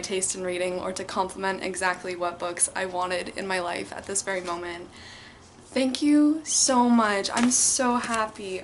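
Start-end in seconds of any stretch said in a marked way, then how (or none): 5.7-8.6 heartfelt. Real, not acted. Emotional thanks.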